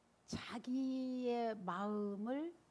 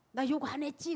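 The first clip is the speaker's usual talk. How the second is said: proud boast; 4 semitones higher, 6 dB louder than usual. Retold or imitated. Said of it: "그런대요".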